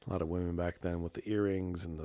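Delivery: ordinary talk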